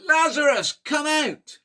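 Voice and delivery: very high, very loud full shout. Shown as a demonstration. Teacher leading toddlers in the biggest shout, very loud and high. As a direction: give it everything, top of the voice. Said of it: "shout that even louder".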